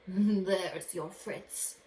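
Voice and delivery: very slow, gloating magician voice; sly magician. Acted. Magician handing the boy a duck, slow and gloating. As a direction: savor each word.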